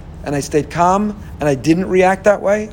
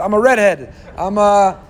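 excuse-making; 4 semitones higher, 3 dB louder than usual. Retold or imitated. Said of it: "everyone's got their answer".

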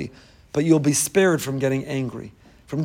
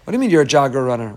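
ordinary talk, nothing marked

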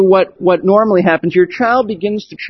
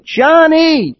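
a high, exploding mock scream of the name; the mother finally loses it and shrieks; mother's retold shrill scream at her son; 8 semitones higher than usual. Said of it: "exploded with an intensely shrill scream".

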